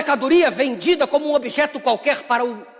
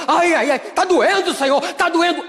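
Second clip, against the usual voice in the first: a hint of whiny complaining, higher; mock whining; 4 semitones higher than usual. Preacher mimics a believer whining to God in pain. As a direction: whimper like a sulking believer. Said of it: "não vem gritando e fica".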